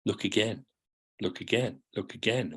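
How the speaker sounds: gently fading repeated prompt. Shown as a demonstration. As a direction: let it fade away as you repeat it. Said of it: "Somebody says".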